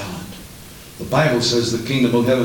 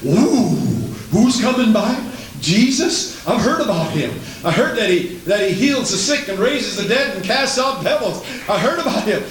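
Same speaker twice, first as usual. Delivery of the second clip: excited discovery; 7 semitones higher than usual. Acted. Acts Bartimaeus hearing Jesus is coming.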